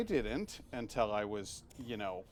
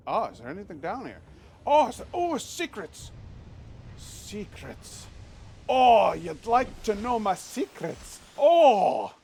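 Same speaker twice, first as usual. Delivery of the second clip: much higher, louder, slow theatrical voice; hammed-up secrets voice; 9 semitones higher, 8 dB louder, slower than usual. Streamer playing up a secret room, higher hammed voice. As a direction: tease it like a sly ghost.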